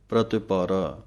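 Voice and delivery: ਪ੍ਰਤਿਪਾਰਾ with a short i on ta; ਪ੍ਰਤਿਪਾਰਾ, ti clearly voiced; Gurbani pronunciation. Shown as a demonstration. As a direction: say ਪ੍ਰਤਿਪਾਰਾ as pra-ti-pa-ra. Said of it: "ਤੱਤੇ ਸਿਹਾਰੀ ਦੀ ਆਵਾਜ਼ ਦੇਣੀ ਹੈ".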